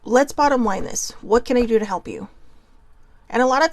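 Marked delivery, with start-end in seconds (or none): 0.0-2.3 kindly offering help, gently upbeat; nice, helpful sibling. Retold or imitated. Older sibling offering help, said nicely and kindly. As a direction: imitate it the friendly way you mean to help. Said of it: "she always said it nicely".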